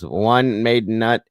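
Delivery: name said slowly, word by word. Real, not acted. Welcoming a viewer by screen name, deliberately slow. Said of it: "how I say that slow now".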